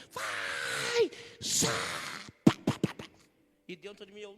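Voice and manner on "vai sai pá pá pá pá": loud, high commanding cry; big prophet. Retold or imitated. Preacher playing the mighty prophet in his head, loud. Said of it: "dando do profetão".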